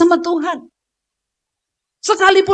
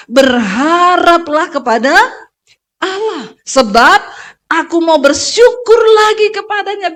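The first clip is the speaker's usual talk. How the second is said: commanding the soul; 4 dB louder, slower than usual. Shown as a demonstration. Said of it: "perintahkan kepada jiwamu".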